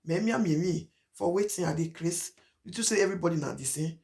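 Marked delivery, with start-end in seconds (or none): 0.0-2.3 light mock scoff at the idea; a hint of a scornful presenter; mock indignation. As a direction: act the presenter's disbelief, half-hearted. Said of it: "They'll say".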